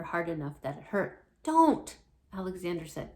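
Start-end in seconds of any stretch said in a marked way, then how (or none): 1.4-2.0 high, loud yelp of protest; sharp cry of pain. Acted. Alexander bitten by Jane, sharp high loud cry.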